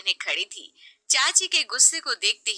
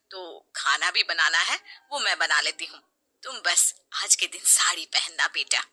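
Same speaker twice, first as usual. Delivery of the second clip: gentle mother-in-law. Acted. Mother-in-law telling Sheena to wear a saree, gentle. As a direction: guide her kindly.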